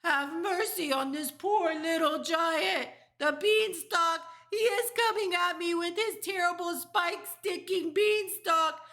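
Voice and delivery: high, loud, relentless pleading; terrified scream. A narrator's reading. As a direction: giant begging for mercy at full volume. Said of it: "screamed the flesh lump eater".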